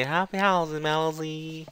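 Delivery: "Happy house" with a soft P, "Melody" as "Melozy"; copying clip sounds. Shown as a demonstration. Teacher imitating the clip's sounds for students. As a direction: blur the P and end on a Z. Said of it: "E talvez pelo P também".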